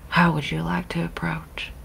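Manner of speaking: hushed, half-whispered question; very low voice. Acted. Marcelina asking Khanun while sneaking, very low voice. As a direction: keep it down, soft and breath-led. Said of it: "very low voice".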